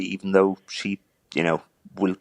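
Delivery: holding back tears; tearing up. Real, not acted. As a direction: voice tight with tears. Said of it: "sorry, I'm tearing up again now".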